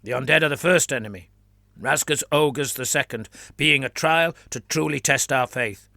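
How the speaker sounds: put-on fervent flagellant in a Trantian accent; a zealot declaring in a Trantian accent; lightly voiced Trantian accent. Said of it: "declared the man in a Trantian accent".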